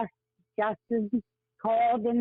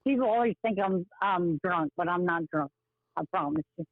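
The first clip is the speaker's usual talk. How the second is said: light West Virginia accent; a hint of Appalachian twang. Real, not acted. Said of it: "I do have a little accent still".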